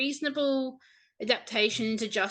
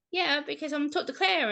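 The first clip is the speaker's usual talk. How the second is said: higher, giddy reply; a higher, excited tone about talking to Claire; 6 semitones higher than usual. Retold or imitated. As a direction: answer buzzing with happiness. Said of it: "like, hyper and happy".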